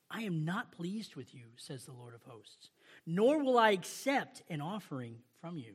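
measured, solemn Bible reading; scripture reading. Acted. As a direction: read the prophet's words with gravity. Reads Malachi scripture aloud.

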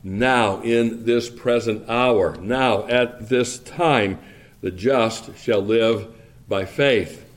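slow, each "now" weighted; stress on now. Shown as a demonstration. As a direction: dwell on "now" and "at this time". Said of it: "the emphasis in verse thirty-eight is on that word now".

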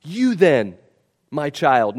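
gentle fatherly address; tender call to a son. Shown as a demonstration. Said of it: "he's doing it in a tender way".

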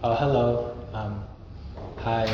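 shy, uninterested hi; awkward greeting. Shown as a demonstration. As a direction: mumble the greeting like you'd rather not. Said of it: "you're super awkward".

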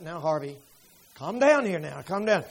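calming wife. Retold or imitated. Wife calms her shouting husband, softly. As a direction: hush him down gently.

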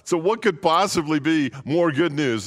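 high, slow "oh my gosh" breaking into a laugh; hammed-up wife, cracking up. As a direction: play the horrified wife while laughing. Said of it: "She goes".

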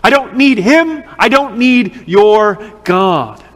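lightly voiced mocking scoffer, slow; a hint of a sneering skeptic, taking his time; scornful unbeliever. The world mocks the Christians: mild slow scorn. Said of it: "To which the world says".

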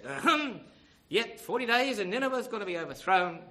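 loud, high mock proclamation; Jonah proclaiming. Jonah looks over Nineveh awaiting its overthrow, mock proclamation. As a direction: clear the throat and announce doom loudly.

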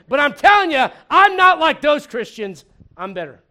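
mock swagger of a know-it-all; boastful Peter. Peter boasting about himself to Jesus, smug.

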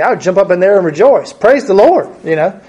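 mock leap up and praise; joyful rejoicing. Father hearing his son will live, rejoicing aloud. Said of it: "his first reaction would be".

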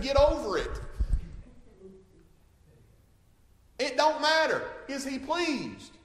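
loud, high defiant pulpit shout; preaching at full force. Acted. Preacher defying what society thinks of him, preaching at full force. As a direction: hammer I don't care at the congregation.

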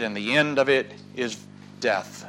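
grave hushed close; hushed ending. Acted. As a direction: drop to a low hush on death. Preacher's dramatic ending.

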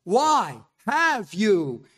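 slow, loud, dragging "Why have you?"; a preacher voicing Christ on the cross, slow and loud; slow anguished question. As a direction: stretch every word as if you cannot believe it. Preacher voices Jesus' perplexed cry.

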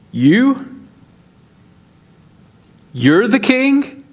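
mock disbelief, with questioning lifts; pause, then question it as if doubting him; incredulous Pilate. Acting out Pilate's disbelief at Jesus.

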